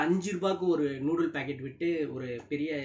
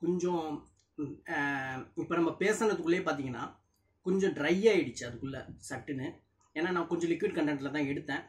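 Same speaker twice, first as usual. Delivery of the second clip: chewing while speaking; slightly full mouth; talking between bites of noodles. Real, not acted. Seen 0: Lifts noodles on fork and talks between bites throughout.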